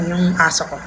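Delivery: ordinary delivery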